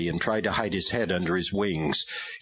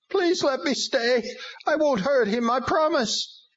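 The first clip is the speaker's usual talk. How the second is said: pleading demon; 3 dB louder than usual. A narrator's reading. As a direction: beg to stay like a beaten demon.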